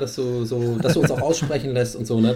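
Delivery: soft, hushed coaching voice; quiet. Real, not acted. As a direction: gently hush it, close to mic. Talking softly to nervous guest.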